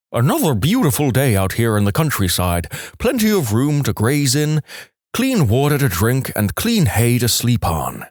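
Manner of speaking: lightly voiced ventriloquist horse; talking horse voice. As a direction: throw the voice as an old horse. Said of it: "the horse appears to reply".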